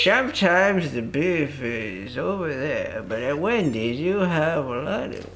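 slow, lightly voiced old radio announcer; a hint of a kindly morning radio guy; wholesome old man radio voice. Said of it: "the voice you're making".

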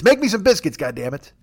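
high-pitched mock order that drops away; jokey indignant command; mock demand. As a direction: demand it in play, starting high.

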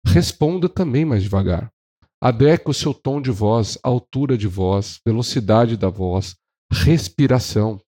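measured, slow phrase by phrase; deliberately slow. Shown as a demonstration. Trainer telling salespeople to answer a slow client slowly, deliberate. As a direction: space out each item unhurriedly. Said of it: "mais devagar que eu tô falando agora".

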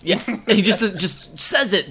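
talking through laughter, high-pitched; amused, voice lifted high with laughter; laughing. Real, not acted. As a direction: laugh as you get the words out. Laughing along at the retold rant.

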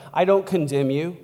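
lightly acted tender reassurance; Jesus. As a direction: offer forgiveness softly, with pauses. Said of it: "The way Jesus talks, very different".

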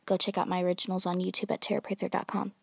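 fast, loud ad-read voice; commercial announcer voice. Pretend. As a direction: sell it like a radio spot. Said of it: "when I try to sound like a commercial person".

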